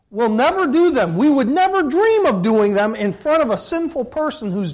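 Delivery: loud, high, emphatic preacher's cry; emphatic preaching. Real, not acted. Preacher to the congregation, loud emphatic cry. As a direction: press the point hard at the congregation.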